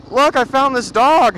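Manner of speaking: high, loud, drawn-out announcement, imitating; mock excited wifely voice. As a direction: imitate a wife proudly showing off her find. Voices wife showing found dog.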